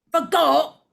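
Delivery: high, loud incredulous squawk; aghast at the mistake; shocked echo. Acted. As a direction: yelp it in disbelief.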